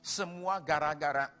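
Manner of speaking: mock self-pitying victim, starting drawn out; victim mentality. Preacher imitates a victim blaming others, mock self-pity. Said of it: "mentalitas korban".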